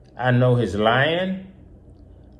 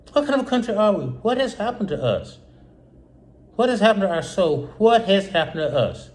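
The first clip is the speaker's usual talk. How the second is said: emotional outcry; 7 semitones higher than usual. Real, not acted. Host pleading with viewers about the country, emotional high outcry. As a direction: pitch jumps much higher in distress. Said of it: "I'm emotional".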